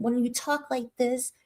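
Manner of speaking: softly put-on proper voice; proper talk. Shown as a demonstration. Showing viewers how Tierra talks, mock proper. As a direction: lightly imitate careful, proper speech. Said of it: "people think you're a better person".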